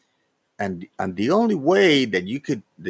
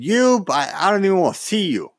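retold fury; 4 semitones higher than usual. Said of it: "and I said".

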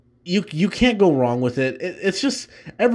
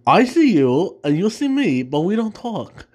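Christopher Walken impression; 4 semitones higher than usual. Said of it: "my Christopher Walken imp".

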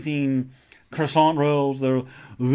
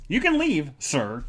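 mock dismissal; slower than usual. Dismissing the rude viewer David in playful haughtiness. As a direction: shoo him out with fake hauteur.

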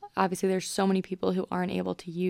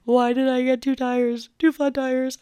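tearful; 5 semitones higher, 4 dB louder than usual. Retold or imitated. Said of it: "I started crying and was like".

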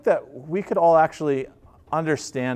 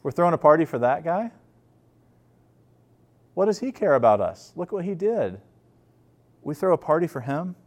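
put-on incredulous older brother; 4 semitones higher than usual. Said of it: "he's like".

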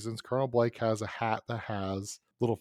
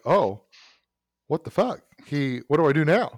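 mock panic; 3 semitones higher than usual. Imitating the attacker caught off guard by the bluff. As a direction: play his thrown-off panic. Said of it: "entire face goes like".

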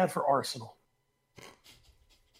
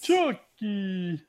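fake Spanish accent. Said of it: "fake Spanish accent".

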